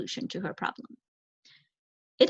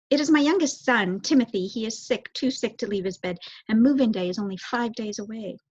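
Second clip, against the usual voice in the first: Mrs Frisbee, nervous. Acted. Mother mouse asking the owl for help, nervously.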